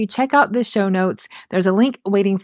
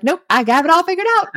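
higher, brushing off help in a cocky voice; a proud, dismissive mock quote; mock know-it-all; 11 semitones higher, 4 dB louder, faster than usual. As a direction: play the smug one who needs nobody. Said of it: "if we're like".

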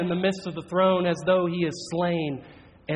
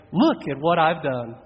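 proud boast; 4 dB louder than usual. Retold or imitated. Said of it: "It either ends in pride".

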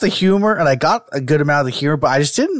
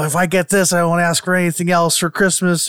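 put-on pleading kid; 6 semitones higher than usual. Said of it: "Like, you know".

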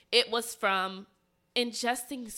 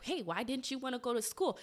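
mildly surprised retold question, pitched higher; shocked mom; 4 semitones higher, 4 dB quieter than usual. Mom asks daughter about skipping school, mildly shocked. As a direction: lightly voice a puzzled mother. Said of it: "her mom was shocked".

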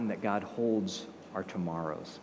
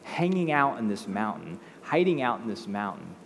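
rousing declaration; 4 semitones higher, 4 dB louder than usual. Retold or imitated. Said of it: "God's like".

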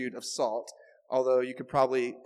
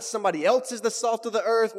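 "else" punched in a higher voice; stress on ELSE; 6 semitones higher, 3 dB louder than usual. Shown as a demonstration. Preacher ruling out a misreading, stressing ELSE. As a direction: raise the pitch and lean on "else". Contrasts wrong readings with "you.

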